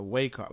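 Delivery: Wacom said as WAY-kah, long A first; alternative pronunciation. Real, not acted. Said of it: "whatever you pronounce it".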